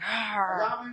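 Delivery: short growling mock scream; mock an attacker's "arr" without real volume; imitated scream. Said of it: "screaming, like".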